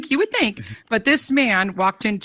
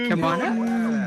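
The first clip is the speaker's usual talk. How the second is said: drawn-out welcoming call; slow, stretched shout to bring someone up; 4 semitones higher, much slower than usual. Real, not acted. Host calling guest up to the stage, drawn-out shout.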